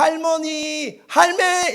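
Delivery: high, held Gyeongsang calls; Gyeongsang dialect. Shown as a demonstration. Preacher demonstrating to congregation, high drawn Gyeongsang calls. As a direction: call grandma loudly, Gyeongsang style. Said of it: "이렇게 하면 다 통하는".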